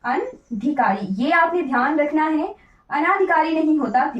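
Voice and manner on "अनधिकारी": अनधिकारी said slowly and softer, each syllable clear; slow correct form. Shown as a demonstration. Teacher repeating the correct word for students, slow. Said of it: "सही वर्तनी होती है अनधिकारी".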